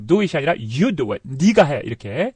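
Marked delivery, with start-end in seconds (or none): 0.5-1.2 YOU leaned on in "you do it"; forceful command pointing at the listener with YOU; stress on YOU. Shown as a demonstration. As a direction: put the weight on YOU. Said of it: "강력하게 얘기할 때는".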